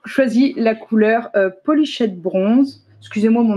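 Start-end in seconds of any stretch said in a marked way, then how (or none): 1.4-2.8 "polichette bronze" said slowly in clumsy French-accented English; French speaker mangling English, slow and unsure; bad English accent. Real, not acted. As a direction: stumble through the English colour name "polichette bronze" with a strong French accent. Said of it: "mon accent anglais est pourri".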